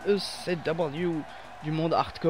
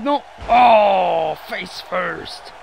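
surprised shout; 8 dB louder, much slower than usual. Real, not acted. Crash, commentator yells.

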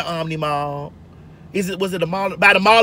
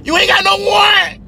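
hammed-up sassy comeback from inside the house; sassy clapback; 9 semitones higher than usual. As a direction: talk back to the cop with attitude. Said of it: "I was like".

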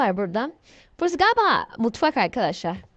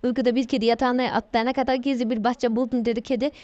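running storybook narration with little pitch movement; steady read-aloud; story reading; 3 semitones lower than usual. Acted.

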